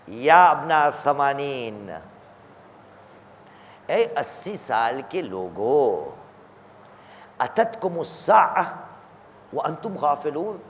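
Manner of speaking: hushed solemn recitation; solemn calling. Acted. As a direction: call out gravely, stretching the words. Solemn call to the aged.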